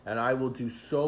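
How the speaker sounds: high, eager pupil pleading with a master; acted wheedling "please, please"; begging and pleading. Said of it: "he begs and pleads".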